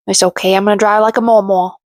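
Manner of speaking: lightly imitated Cajun accent. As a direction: mimic her Cajun twang on "mama". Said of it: "put a Cajun accent on that mama".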